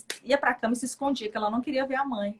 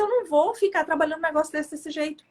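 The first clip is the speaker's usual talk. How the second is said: she protests the state of her new office, with raised indignant refusal; 5 semitones higher than usual. Retold or imitated. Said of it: "Falei assim".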